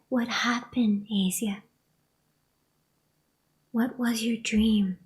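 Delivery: hushed and soft; soft whisper. Retold or imitated. Mother gently asking her upset daughter about the dream, hushed. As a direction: ask gently, barely above a breath.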